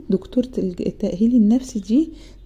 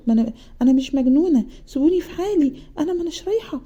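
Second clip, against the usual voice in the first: upset refusal; 6 semitones higher, faster than usual. Retold or imitated. Refusing mother, rejecting psychiatrist visit.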